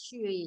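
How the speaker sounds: ฉุย low and soft, airy sh onset; airy third tone. Shown as a demonstration. Teacher modelling the word for water, ฉุย airy and low. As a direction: breathe out the sh and sink low on ฉุย. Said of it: "ออกเสียงลมเยอะๆ กับสระอุยเสียงสาม".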